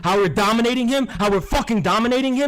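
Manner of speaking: high, loud triumphant shouting; gloating yell. Real, not acted. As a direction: crow over the rival at full volume. Gloating rant at rival streamer.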